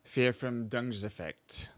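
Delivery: Verfremdungseffekt slow, each part clear; careful pronunciation. Shown as a demonstration. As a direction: repeat Verfremdungseffekt slowly, syllable by syllable. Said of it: "It's pronounced as".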